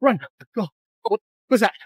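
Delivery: high frantic yelling to run; panicked shouting. Real, not acted. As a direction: scream at your friend to flee. Fleeing something in the dark.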